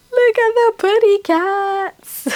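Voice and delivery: drawn-out, high-pitched pet voice; cutesy cooing. Real, not acted. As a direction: coo adoringly over cute cats. Cooing at pictured cats.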